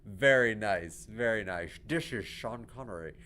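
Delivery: slow, slurred-s Scottish film star impression; a badly faked Scottish star, drawn out; Sean Connery. Gamer imitates a famous actor for laughs, slow bad impression. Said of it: "I can't do a good Sean Connery".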